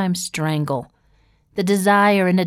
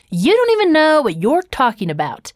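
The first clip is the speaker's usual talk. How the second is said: put-on higher, louder bratty teenage retort; defiant teen daughter; 6 semitones higher, 3 dB louder than usual. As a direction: snap it back like a huffy teen. Daughter flinging angry words.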